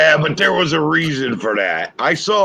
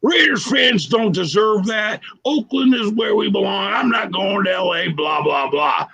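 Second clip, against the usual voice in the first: shouting; 5 semitones higher than usual. Retold or imitated. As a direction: yell it like an angry player. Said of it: "Villapiano was like".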